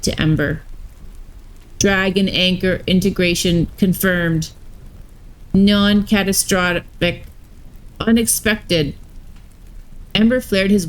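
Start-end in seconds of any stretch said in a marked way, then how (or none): 1.8-8.9 lightly voiced robot warden; even, mechanical robot delivery. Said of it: "had robot voices".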